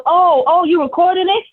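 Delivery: high, startled mock reaction; caught-out surprise. Comedian imitating harasser learning he is being recorded, caught-out surprise. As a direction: imitate him suddenly realising he's caught.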